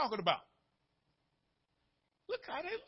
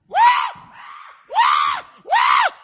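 high, loud panicked whoops; 9 dB louder, much slower than usual. Shown as a demonstration. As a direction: whoop like you're losing it behind the wheel. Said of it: "I can panic all day long inside over here".

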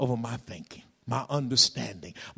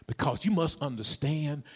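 ordinary talk

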